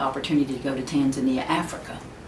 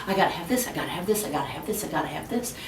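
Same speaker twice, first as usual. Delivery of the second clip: mock wanting chant, getting softer each time; craving, fading; 7 dB quieter, much faster than usual. A shopper hooked by commercials, craving softly. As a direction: repeat it like an urge that fades to a murmur. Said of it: "what commercials want us to do".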